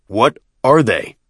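amazed questioning. A narrator's reading. Chieftain amazed by the vehicles.

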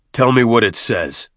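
firm command; ordering. A narrator's reading. Chieftain to the deacon about the Hurugok, ordering. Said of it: "and ordered".

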